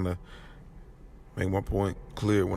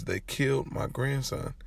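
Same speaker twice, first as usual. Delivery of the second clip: higher, slow, weighty statement; retold anguish; 5 semitones higher, slower than usual. Grandpa tells his grandson's friend, slow anguished insistence. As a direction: spell it out slowly as the grieving grandpa.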